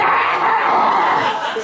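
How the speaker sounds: drawn-out wild scream; raspy bear-hug roar; long hoarse yell. Retold or imitated. Mock crazed shout. Buddy bear hugs him, yelling.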